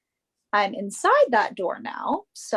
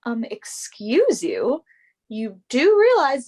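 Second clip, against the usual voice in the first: indignant; 5 dB louder, slower than usual. Acted. Model offended by rude remark.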